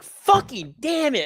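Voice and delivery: slow, drawn-out imitated curse with a laugh; mock frustrated curse. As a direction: replay cursing at the chart, half laughing. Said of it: "I'm just like".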